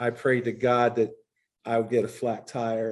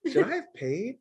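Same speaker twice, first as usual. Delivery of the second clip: high, sheepish, laughing question; embarrassed laughing question; 11 semitones higher than usual. Retold or imitated. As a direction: laugh it out at yourself. Asking sponsor, laughing at himself.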